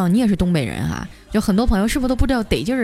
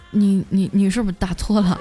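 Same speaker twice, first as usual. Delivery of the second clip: hesitant, mildly meek imitation; understated sheepish stutter; timid, feeble voice. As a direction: stammer it out weakly, unsure of yourself. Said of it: "那边是弱弱的说".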